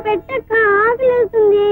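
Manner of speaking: slow whimpering plea. Acted. Hungry girl begging.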